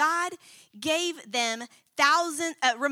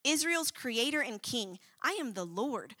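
God's tone; 3 dB quieter than usual. Acted. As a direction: read it as God's quiet, certain power. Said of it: "I want y'all to hear God's tone".

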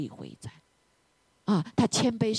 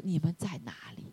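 softly voiced fatherly call; quiet, kindly searching; gentle; 7 dB quieter than usual. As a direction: act out a mild, tender question. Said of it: "蛮有他的温和".

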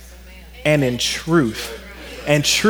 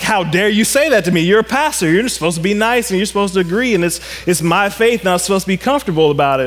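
mock indignation, quick and a little raised; offended; 3 semitones higher, faster than usual. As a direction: protest like an affronted churchgoer. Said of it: "the guy kinda got offended".

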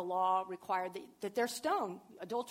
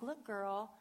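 scolding; 2 semitones higher, 4 dB louder than usual. Retold or imitated. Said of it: "He wasn't like".

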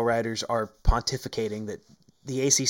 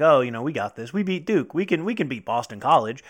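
overconfident; 4 dB louder than usual. Retold or imitated. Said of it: "That kind of mentality".

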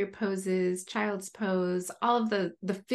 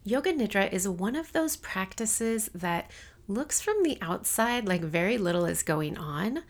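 even, measured bio read; scripted guest introduction. Acted. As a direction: read the guest's biography out carefully. Reads episode summary and guest bio.

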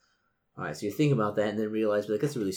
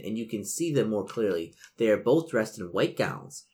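measured gamebook read-aloud; game master narration; 2 semitones lower than usual. A narrator's reading. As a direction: set the scene for the players. Game master reads scene.

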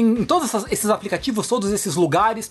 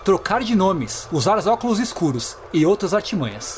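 grand herald voice; 4 semitones lower than usual. Acted. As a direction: announce it like a feudal lord.

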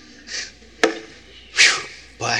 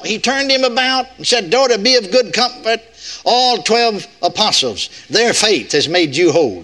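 raised scripture read, dropping at the end; mock misreading of scripture; 5 semitones higher than usual. Preacher joking that twelve apostles were needed, lofty. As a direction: read it grandly as a joke. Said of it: "It took twelve of them".

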